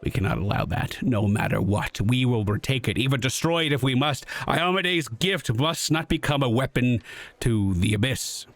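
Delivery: steady, resolute knight commander; paladin voice. Acted. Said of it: "doing my paladin voice for her".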